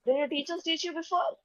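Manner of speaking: imitating an outraged teacher's telling-off; enraged teacher. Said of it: "she's very enraged first thing in the morning".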